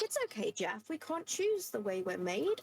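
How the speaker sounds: softly soothing a monster, tongue in cheek; a gentle therapist voice, half joking; mock reassuring. To the monster Jeff, reassuring him in a soft mock-therapist voice. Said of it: "No, it's like".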